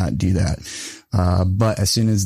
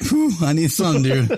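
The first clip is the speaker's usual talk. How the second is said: out of breath; 6 semitones higher than usual. Real, not acted. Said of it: "Get him some oxygen".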